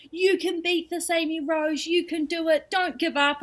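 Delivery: high, chirpy imitation of well-wishers; lightly mocking encouragement from others; mock pep talk. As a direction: parrot the relentless cheerleading. People cheering her on.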